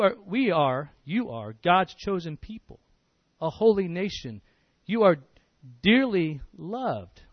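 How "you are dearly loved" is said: slow, tender "dearly loved"; lingering gently over each word. Acted. Preacher tells flock they're loved.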